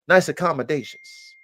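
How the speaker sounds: "nice accommodations" whispered under the breath; whispered aside. Real, not acted. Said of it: "repeated phrase, whispered take".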